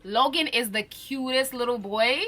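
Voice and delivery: gushing. Real, not acted. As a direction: melt over how cute they are. Gushing about the cute kids.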